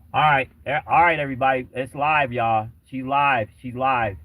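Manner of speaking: excited announcement. Real, not acted. Host tells viewers the caller is live, announcing loudly. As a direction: announce it loudly to everyone watching.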